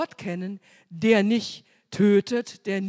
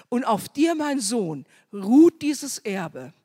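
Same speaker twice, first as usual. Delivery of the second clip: louder, rising preacher's promise to his son; fervent father; 3 dB louder than usual. Acted. (Abraham verkündet Isaak laut und feierlich)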